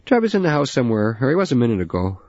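put-on an older man swearing under a truck hood; gruff old father. Father voiced.

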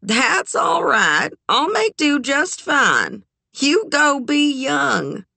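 high, slow, smiling reassurance. A narrator's reading. Eleanor sends her niece off to have fun, smiling. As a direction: draw it out high, through a smile.

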